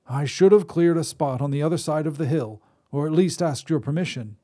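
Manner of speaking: put-on reedy old wizard. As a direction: apologize as a thin-voiced old wizard. Wizard voice held.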